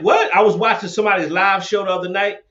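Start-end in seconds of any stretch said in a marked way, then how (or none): 0.0-0.3 sudden high-pitched startled "What?"; retold shock at a blurry camera. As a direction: jump up in pitch, caught off guard. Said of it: "I'm like".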